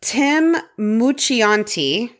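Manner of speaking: drawn-out hammy Italian pronunciation; playful attempt at an Italian accent; mock Italian accent. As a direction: give the name a slow Italian flourish. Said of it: "just gonna give it to Whirl".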